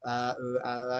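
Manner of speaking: mock stammered "a, e, a"; hesitation fillers. Shown as a demonstration. Teacher shows students what to avoid, stalling fillers. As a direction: imitate a speaker stalling on vowels. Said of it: "itu dikurangin".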